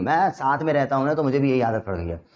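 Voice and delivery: usual speaking voice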